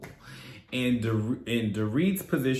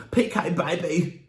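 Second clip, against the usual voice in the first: put-on slow, higher cooing P K, baby; mocking Dorit's accent; 6 semitones higher than usual. Vlogger imitating Dorit cooing to husband, slow and high. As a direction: drawl it in a mock posh purr. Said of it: "And then here she goes".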